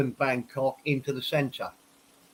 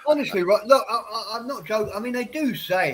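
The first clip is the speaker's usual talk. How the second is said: laughing; 6 semitones higher than usual. Real, not acted. Insists while laughing about whiskey.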